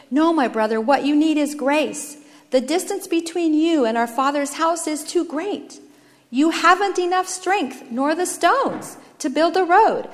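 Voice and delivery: gentle but insistent persuasion; compassionate firstborn. Acted. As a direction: reason with him earnestly. Firstborn answers with reassurance.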